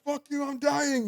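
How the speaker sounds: high, drawn-out retold whine; mock dying panic. Telling laughing sister he is dying, mock panicked.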